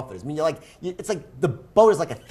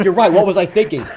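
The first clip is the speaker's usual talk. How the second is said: mock resolve; 4 semitones higher, 9 dB louder than usual. Friend answers with mock resolve.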